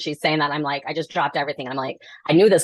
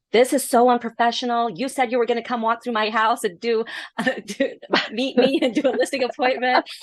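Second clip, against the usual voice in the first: mock angry rant; 7 semitones higher than usual. Retelling the drunk seller scolding her, mock angry. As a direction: imitate an irate client telling her off. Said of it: "yelling at me".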